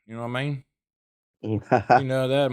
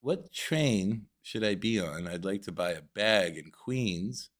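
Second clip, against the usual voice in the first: proper tourist voice. Pretend. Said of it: "I'd be like".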